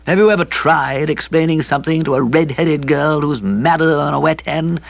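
put-on high, plaintive young man; hapless young friend. A narrator's reading. Kipper laments the misunderstanding to his friend, hapless and plaintive.

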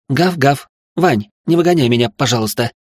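high yapping puppy plea, then pleading; playful begging. Acted. Girl begging Vanya to let her stay, puppy-like. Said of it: "сказала".

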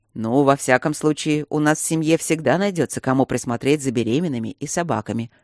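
dry sarcastic remark. Acted. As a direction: say it with a sarcastic edge. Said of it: "саркастически заключил Люк". (саркастично, с иронией)

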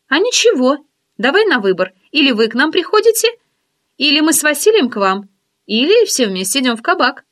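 teasing curiosity, lifted voice; friend's voice. Acted. Oksana proposing party.

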